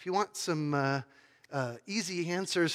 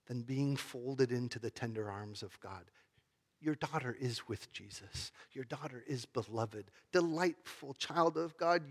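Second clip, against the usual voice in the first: cradle the grieving father with each word; gentle reassurance; 3 semitones lower, 5 dB quieter than usual. Retold or imitated. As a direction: pastor softly assuring a grieving father his daughter is with Jesus, tender and hushed. Pastor comforts grieving father.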